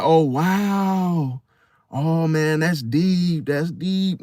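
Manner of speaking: drawn-out sarcastic wow, lightly done; mock amazement. Hidden enemy mocking your emotional depth, sarcastically impressed. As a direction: pretend to be impressed without meaning it. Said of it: "they're mocking your emotional depth".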